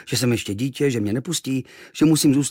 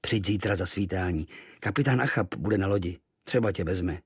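gruff sailor; 2 semitones lower than usual. Acted. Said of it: "se nade mnou naklonil a povídá".

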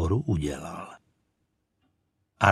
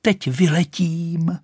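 higher, slow proud cry; 8 semitones higher, slower than usual. Acted. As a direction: announce your flight. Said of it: "křičela".

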